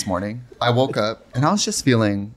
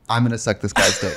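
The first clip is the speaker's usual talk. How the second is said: laughing inner thought; 5 semitones lower than usual. Retold or imitated. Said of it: "It was in that moment I knew".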